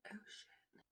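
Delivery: barely audible whisper; tiny hushed "uh-oh" moment; dawning realisation. Retold or imitated. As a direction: whisper it to yourself, caught out. Sudden realisation she is wrong.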